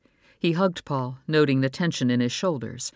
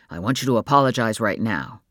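stern father; 3 semitones lower, 3 dB louder than usual. Acted. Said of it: "taking on Paul's anger".

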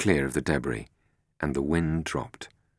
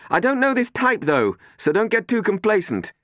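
higher, louder wry caution; Robin, wry warning; 5 dB louder than usual. Acted. Robin warning the passengers not to relax, wry. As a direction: warn them, half joking.

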